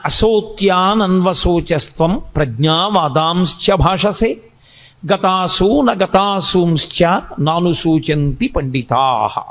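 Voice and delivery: slow, measured Sanskrit chant; verse recitation. Acted. Teacher intoning Krishna's opening verse to listeners, slow chant. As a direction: intone the sloka slowly and evenly.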